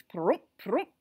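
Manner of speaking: two short mouth-made pops; imitated tugging noise; popping sound effect. A narrator's reading. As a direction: mimic two sticks popping out. Sound of sticks pulled out.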